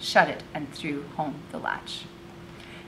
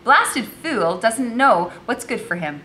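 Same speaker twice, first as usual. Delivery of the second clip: exasperated grumble; 5 semitones higher, 5 dB louder, slower than usual. A narrator's reading. Becky grumbles about Curzon.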